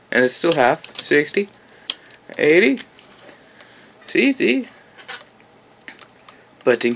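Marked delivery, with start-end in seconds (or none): 2.4-4.7 high, gleeful pointing out; delighted look-at-that; excited. Real, not acted. Showing width follows length.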